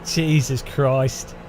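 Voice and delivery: slow, low and drawn out; tired resigned groan; weary sigh. Real, not acted. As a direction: give up on the song. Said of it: "It's torture".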